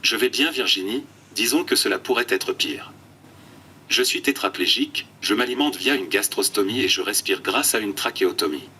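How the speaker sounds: computer text-to-speech voice; flat synthetic speech from an eye-tracking tablet. Real, not acted. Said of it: "une tablette oculaire et une voix de synthèse". (voix de synthèse robotique)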